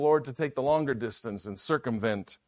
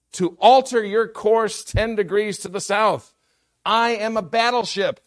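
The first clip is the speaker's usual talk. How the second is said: angry growl; 10 semitones higher, 10 dB louder than usual. Acted. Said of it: "the captain growled back over the radio".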